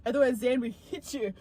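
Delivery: Irish accent that slips into Scottish; botched Irish accent. Shown as a demonstration. Reading Niall's threat aloud, botched Irish accent. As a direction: try Irish, land on Scottish. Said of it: "That's Scottish".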